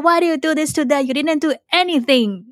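high, scornful self-scolding voice; mock your own self like a mean critic; harsh sarcastic. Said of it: "in the most, like, sarcastic and depressing way".

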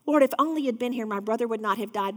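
hurried, tumbling words from Mary; rushed pleading Mary. Acted. Mary at Jesus' feet repeats Martha's words, rushed. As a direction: blurt it out fast at his feet. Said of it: "she said the same thing".

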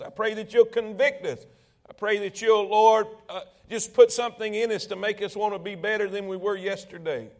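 public prayer. Real, not acted. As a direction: lead the congregation gently in prayer.

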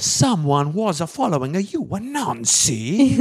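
high, slow, thick mock French accent. Owner warns Nancy she was followed, mock French accent. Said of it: "Are you getting more French?".

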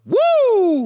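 high, drawn-out retold whoop; mock yell. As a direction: whoop it out the way she yelled in the cinema. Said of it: "You, you yelled out".

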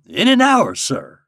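high, loud, brief reply; lightly voiced country guide; obliging old guide. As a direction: agree promptly as a rustic guide. Old guide answers his employer.

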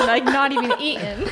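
laughing. Retold or imitated. Retelling sandwich story laughing.

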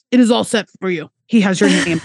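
fast, lightly put-on Portuguese accent; quick half-hearted Portuguese accent, insisting kindly; rough Portuguese accent. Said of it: "this is not gonna be a good accent".

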